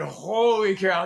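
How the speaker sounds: slow, loud, astonished "Holy cow"; drawn-out amazed holy cow. Retold or imitated. Amazed at Sin City.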